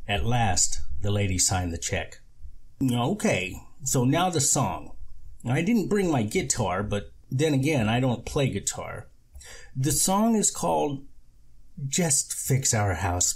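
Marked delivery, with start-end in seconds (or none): 2.8-13.3 high showman voice; high goofy con man. Acted. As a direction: introduce your song proudly. The speaker announces his song.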